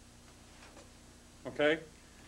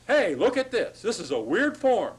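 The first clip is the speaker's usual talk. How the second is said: put-on higher and louder, a playful "hey, look" as the accent mark itself; mock alarm call; 6 semitones higher, 5 dB louder than usual. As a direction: call out like a flag waving for attention. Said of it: "It says".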